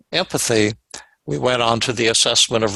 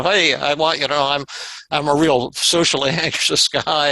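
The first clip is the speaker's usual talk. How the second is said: retold lines, a little higher, with a light laugh breaking in; laughing while saying it; 3 semitones higher than usual. Jim greeting hikers on the trail, half laughing. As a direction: imitate him cheerfully admitting it through a chuckle. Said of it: "And he would say it laughing".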